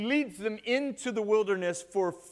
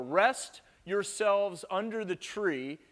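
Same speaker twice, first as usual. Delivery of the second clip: slow scripture read; 3 semitones higher, slower than usual. Acted. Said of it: "Genesis eighteen four".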